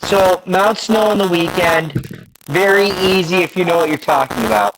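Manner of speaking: glitchy, distorted robotic audio; choppy robot-sounding connection. Real, not acted. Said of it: "And he's back to his robot voice".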